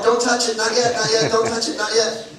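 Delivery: loud playful warning, don't touch it; mock yell. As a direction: call out across the beach, half joking. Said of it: "I yell at you all day long".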